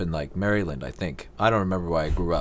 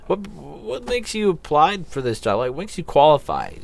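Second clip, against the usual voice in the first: mock interviewer; 7 semitones higher than usual. Plays interviewer, higher, slower.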